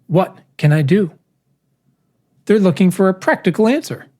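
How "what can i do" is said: "do" ditekan dengan nada naik di akhir; stress on DO. Shown as a demonstration. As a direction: lean on "do" and let the question rise. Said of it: "Some people emphasize the what or the do in".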